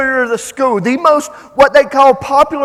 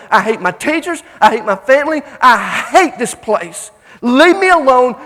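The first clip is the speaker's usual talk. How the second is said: loud, emphatic retold tirade; angry outburst; 5 dB louder than usual. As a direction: act out pent-up hatred, hammering each phrase. Acts out bullied girl's furious outburst.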